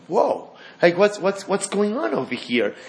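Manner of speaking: high, startled disbelief, imitating Bilam; mock astonished whoa. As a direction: act like you can't believe a donkey talks. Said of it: "you would have thought, Bilam was like".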